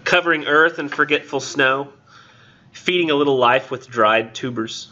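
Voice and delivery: measured verse with spaced phrases; poem reading. Acted. Lecturer reading Eliot to the class, poem reading. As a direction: recite it line by line, pausing between phrases.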